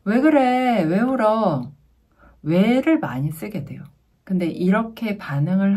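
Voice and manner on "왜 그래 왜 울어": prickly, higher and louder questioning; irritated parent demanding why. Acted. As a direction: snap testily at the child, voice raised. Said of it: "까칠하게 나갈 수밖에 없죠".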